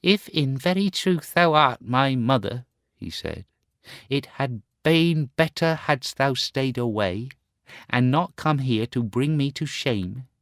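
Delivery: put-on high, hard, bitter boy's voice; cold, proud rejection of his mother. Son coldly sending his mother away, hard and bitter. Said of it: "his voice was hard and bitter".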